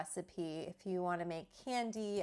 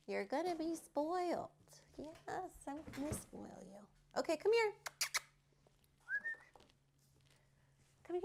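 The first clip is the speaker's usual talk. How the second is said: very high, sing-song pet voice; high squeaky doggy talk; 7 semitones higher, 3 dB quieter than usual. Real, not acted. Baby talk to dog.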